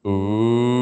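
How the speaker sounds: ooh swooping up and down; roller coaster siren. Shown as a demonstration. Coach leading the class roller coaster. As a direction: slide through your range. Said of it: "your roller coaster begins now".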